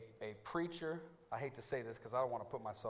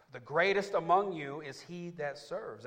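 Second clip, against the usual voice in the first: emphatic scripture quote; 5 semitones higher, 9 dB louder, slower than usual. Acted.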